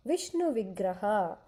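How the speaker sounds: Vishnu Vigraha said slowly for repeating; teacher modelling Vishnu Vigraha for children; slow model phrase. Shown as a demonstration. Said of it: "say that, Pumrupa".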